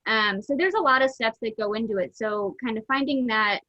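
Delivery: muffled through a mask; talking behind a face mask. Real, not acted. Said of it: "hopefully you can hear me through my mask".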